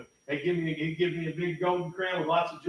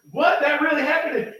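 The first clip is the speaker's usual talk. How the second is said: very high, loud disbelieving cry; playing an angry caller, shouted high; shocked outburst; 13 semitones higher, 13 dB louder than usual. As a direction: blurt it out in shock.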